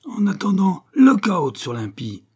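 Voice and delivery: thundering voice from above; storm spirit. A narrator's reading. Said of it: "tonna une voix formidable".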